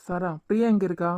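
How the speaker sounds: alarmed call. Real, not acted. Worried husband on the phone asking his wife, loud and alarmed. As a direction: demand to know at once where she is.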